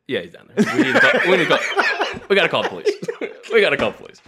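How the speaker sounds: telling coworkers to call the police, laughing; laughing mock panic. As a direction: retell the panic through giggles. Retold alarm to coworkers, laughing.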